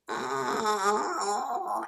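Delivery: drawn-out, soft mock whine; whining groan. Shown as a demonstration. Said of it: "is it a whine?".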